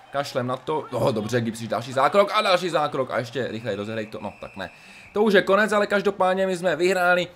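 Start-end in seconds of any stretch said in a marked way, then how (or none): 5.1-7.3 high, loud triumphant call; victory cheer. Real, not acted. Gamer to viewers at the final whistle, high loud triumphant cheer. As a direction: celebrate the win out loud.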